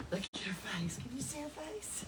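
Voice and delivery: soft secret whisper. Real, not acted. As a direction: whisper it, leaning in close. Reading aloud, hushed asking child.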